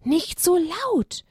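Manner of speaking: slow down and hush them kindly; gentle warning. Acted. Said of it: "ermahnte Onania". (sanfte Ermahnung der Eule, langsam)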